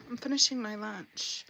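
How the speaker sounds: talking while chewing; words round a bite of food. Real, not acted. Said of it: "So forgive me for chewing".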